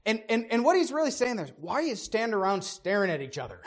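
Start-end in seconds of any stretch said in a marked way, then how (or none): 1.6-3.6 put-on fast, gruff old father scolding; grumpy old man voice. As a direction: grumble it like an impatient old dad. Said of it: "sort of a grumpy old man voice".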